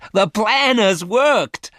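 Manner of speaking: high, loud and slow with joy; thrilled outburst at the good news; excited cry. A narrator's reading. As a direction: cry it out in triumph. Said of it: "she cried excitedly".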